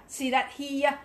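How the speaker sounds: HERE as an Australian "hee-ya"; Australian vowel on HERE; Aussie accent. Shown as a demonstration. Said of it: "That's an Aussie".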